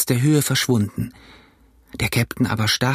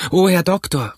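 high, urgent appeal to the doctor; anxious call; 7 semitones higher, 3 dB louder than usual. Acted. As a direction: call out for help. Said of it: "riefen wir". (aufgeregter, hoher Hilferuf)

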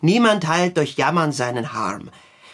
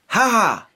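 1 timid laugh; 6 semitones higher, 4 dB louder than usual. Shown as a demonstration. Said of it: "Nicht so zaghaft".

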